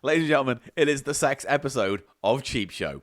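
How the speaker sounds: loud showman intro; announcer voice. Acted. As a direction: announce it like a compere. Grand show announcement.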